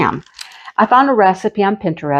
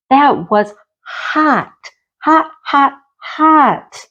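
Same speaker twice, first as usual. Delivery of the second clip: pained repetition; 7 semitones higher, much slower than usual. Retold or imitated. Retelling the burn.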